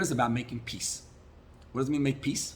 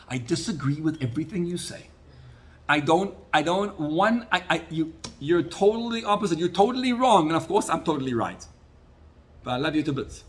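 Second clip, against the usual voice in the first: mock argument; 4 semitones higher than usual. Acts out loving a disagreeing Jew.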